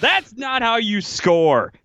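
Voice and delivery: high, drawn-out mock outrage; exasperated fan. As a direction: act out yelling at a player on the screen. Acting out exasperated fan complaint.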